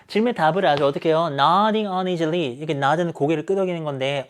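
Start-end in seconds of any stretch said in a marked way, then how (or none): 1.3-2.5 slow careful reading of "Nodding uneasily"; slow teacher read of "Nodding uneasily"; read slowly. Shown as a demonstration. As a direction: draw out "Nodding uneasily" word by word. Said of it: "좀 이렇게 불편불쾌하게".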